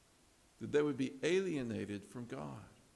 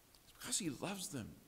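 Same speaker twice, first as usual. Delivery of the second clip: softer, higher, pleading with love; tender pleading; 4 semitones higher, 7 dB quieter than usual. Shown as a demonstration. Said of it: "The doctor begins to plead".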